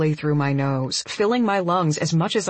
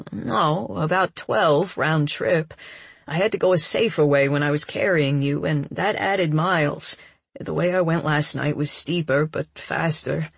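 a hint of a man's voice, explaining; lightly voiced Cassidy, matter-of-fact. Man explaining his route to the crying woman, lightly voiced. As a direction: lightly play a man correcting her modestly.

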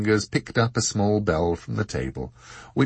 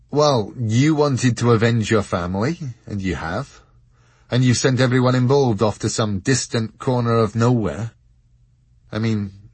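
put-on higher, louder young man pressing a question; Richard, earnest; 4 semitones higher, 6 dB louder than usual. A narrator's reading. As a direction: push for reassurance. Narrator voices Richard.

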